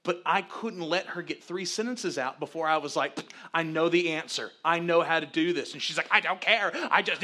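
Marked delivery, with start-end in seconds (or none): 3.5-5.7 loud, emphatic know-it-all; acted husband overriding his wife; insistent interrupting. Acts himself cutting wife off. 6.1-7.2 loud, higher mock outburst; imitated frustrated wife, raised voice; exasperated protest.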